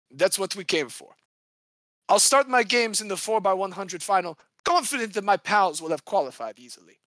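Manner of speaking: put-on cocky French accent, lightly done; a boastful French swimmer in a rough French accent. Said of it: "I'm gonna try and do this in an accent".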